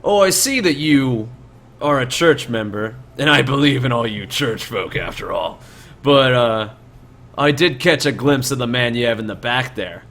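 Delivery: lightly voiced bandit boss, feigned agreement; a hint of scheming highwayman; sly bandit leader. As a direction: concede a little, then press the traveller.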